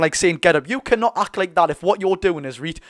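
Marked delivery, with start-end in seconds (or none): 0.4-0.7 imitating an angry player, a bit louder; mock angry order. Imitating Hume telling Gordon off, mildly angry. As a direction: act out a cross command, lightly. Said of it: "he's acted angry to Gordon".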